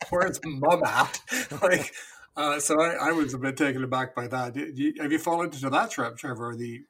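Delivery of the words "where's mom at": "Where's Mom at?" drawn out slowly, leaning on "Mom"; mocking the phrase. Parent repeating daughter's Southern phrase, slow disbelief. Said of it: "'Cause I've never heard".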